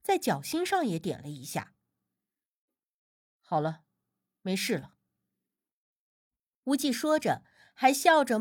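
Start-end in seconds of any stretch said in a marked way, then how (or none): 3.4-4.9 gentle reassurance. A narrator's reading. Healer to worried family after treating the baby, reassuring.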